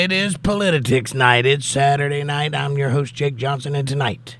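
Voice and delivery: big live-show intro; show host's opening. Acted. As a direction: welcome the audience like a showman. Host opens the show.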